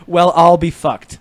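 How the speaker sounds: slow, drawn-out Irish accent; terrible Irish accent. Shown as a demonstration. Friend revealing the hidden phrase, Irish accent. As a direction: stretch it into a bad Irish accent. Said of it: "I'm sure these are terrible, uh, accents".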